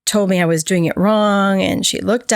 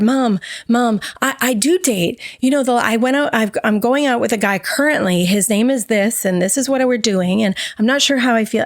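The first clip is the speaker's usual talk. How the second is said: higher, eager rush to please; eager placating; 3 semitones higher than usual. Retold or imitated. Daughter pleading with mom to be accepted, eager and higher. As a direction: win mom back. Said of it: "come peddling, running forward".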